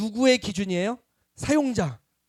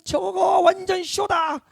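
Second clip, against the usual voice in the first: mock sneer; 11 semitones higher, 3 dB louder, slower than usual. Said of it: "그러고 누구는".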